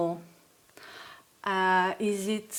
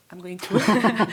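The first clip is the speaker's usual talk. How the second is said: buzzing like a bee; 4 dB louder, slower than usual. Pretend. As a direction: do a little bee buzz. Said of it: "Nice impression of a bee".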